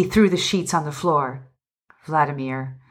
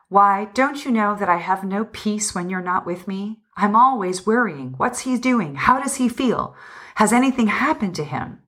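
higher, lilting voice of a worrying wife; fond worry; 4 semitones higher than usual. Acted. Wife tells husband how she frets over him: fond worry. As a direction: let the anxious questions float up high.

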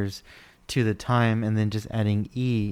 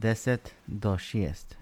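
slow demo; 5 dB quieter, slower than usual. Shown as a demonstration. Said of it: "So you're saying ten to six".

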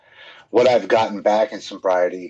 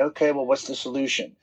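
softer, mock-calm problem solving; imitated calm reply; 5 semitones higher, 5 dB quieter, faster than usual. Husband quoting wife quoting him, imitating calm. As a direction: quote an unruffled husband, softly. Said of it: "He just calmly tells me".

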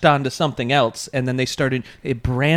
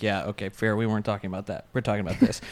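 soft, calm correction; 5 semitones lower, 9 dB quieter, faster than usual. Retold or imitated. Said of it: "you'll be like".

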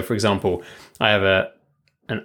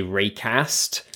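Raycast with a short flat a, northern English; 4 dB quieter than usual. Shown as a demonstration. British guest showing the northern pronunciation. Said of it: "if you were up north".

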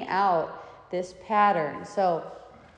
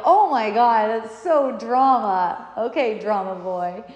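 teasing; 3 semitones higher, 8 dB louder than usual. Retold or imitated. Mother teasing son as dramatic.

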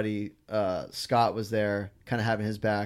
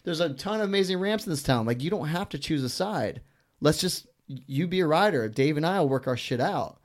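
exasperated rant; 8 semitones higher than usual. Retold or imitated. Retelling his rant about choosing sides.

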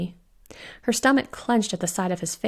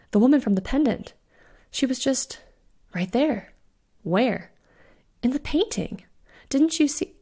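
higher, pressing, incredulous; urgent disbelief; 5 semitones higher than usual. Acted. Fiona to Eleanor, who saw nothing, rising urgency. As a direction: insist she saw it, voice climbing.

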